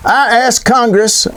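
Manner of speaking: put-on slow, lightly done FDR accent; a modest try at the FDR accent; a hint of FDR's accent. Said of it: "I do his accent".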